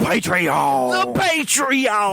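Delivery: monster truck ad. Pretend. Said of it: "come see the fucking Monster Truck rally".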